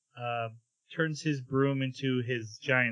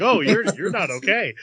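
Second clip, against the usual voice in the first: mock concern; 6 semitones higher, 8 dB louder than usual. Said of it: "He's like".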